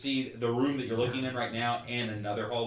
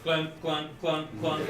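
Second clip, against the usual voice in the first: higher, rhythmic clunks; imitated building clamor; 5 semitones higher, 3 dB louder, slower than usual. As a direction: mimic hammering, one clunk at a time. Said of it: "It's a clamoring of".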